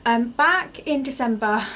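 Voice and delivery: gasping between phrases; breathless after running upstairs; out of breath. Real, not acted. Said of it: "sorry, I am so out of breath".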